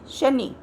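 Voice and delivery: शनि with the final नि said fast and light; quick short i. Shown as a demonstration. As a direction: rush through the ending of शनि. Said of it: "तो हम इसको जल्दी बोल जाएंगे". (शनि छोटी इ जल्दी से)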